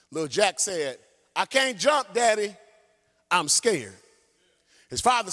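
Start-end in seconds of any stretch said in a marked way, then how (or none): 1.3-4.0 put-on scared child.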